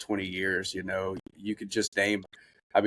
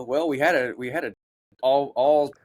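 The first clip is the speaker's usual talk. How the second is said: quoting a GM; 6 semitones higher than usual. Retold or imitated. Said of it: "and he's like".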